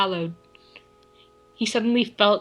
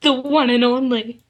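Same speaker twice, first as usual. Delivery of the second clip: a little louder; 3 semitones higher, 4 dB louder than usual. Acted. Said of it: "a little more loudly".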